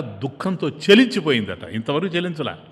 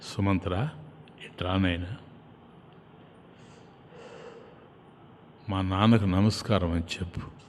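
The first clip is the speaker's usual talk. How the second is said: tender Rama; 7 semitones lower, 10 dB quieter than usual. A narrator's reading. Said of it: "రాముడు నన్ను దగ్గరగా పిలిచి".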